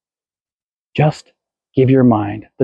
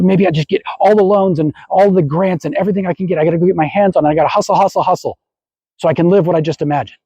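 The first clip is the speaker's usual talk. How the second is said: higher-pitched, breathless-style rush of worries; frantic hustling; 5 semitones higher, faster than usual. Acted. Person rushing to make money happen, frantic. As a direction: tumble anxiously from one plan to the next.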